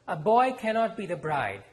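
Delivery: deep conviction. Acted. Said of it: "she said with deep conviction".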